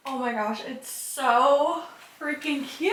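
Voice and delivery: thrilled and squealing; excited. Real, not acted. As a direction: gush over how cute it is. Seeing the hung curtains.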